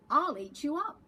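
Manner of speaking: put-on loud childish threat; Max threatening. Little boy Max threatening his mother, loud. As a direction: shout it like a wild little boy. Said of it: "and Max said".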